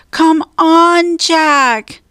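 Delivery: high, loud urging; shouting. A narrator's reading. Annie urges Jack up to the treehouse, high urgent shout. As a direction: shout to hurry him along. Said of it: "Annie shouted".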